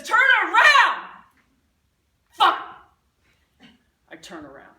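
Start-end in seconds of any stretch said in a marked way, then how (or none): 0.0-1.1 a screaming high yell; shout. Retold or imitated. Frantic wife screaming at husband to turn. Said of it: "She finally says". 2.3-2.6 a sharp loud swear; frustrated curse. Retold or imitated. Stuck driver swearing at the situation, loud and sharp.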